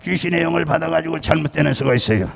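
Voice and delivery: firm, ringing pulpit delivery with cadenced endings; preaching. Acted. Pastor preaching on hearing God to his congregation.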